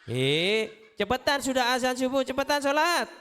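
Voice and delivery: impatient mother. Retold or imitated. Impatient mother waking child.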